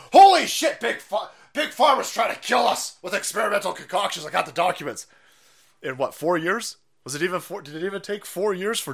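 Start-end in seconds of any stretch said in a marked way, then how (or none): 0.1-5.1 shrill excited mock rant, higher; mock Jimmy Dore. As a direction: play him as a frantic convert. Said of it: "to going".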